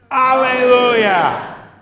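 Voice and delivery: high, very loud, drawn-out cheer; joyful shout. Shown as a demonstration. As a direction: shout it out with the kids. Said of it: "stand up for it and shout".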